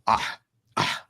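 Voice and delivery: imitated speechless stammering noise; voiceless, stuck for an answer; flustered "ah, ah". Cast member caught out by guest, flustered. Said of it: "He gets all upset".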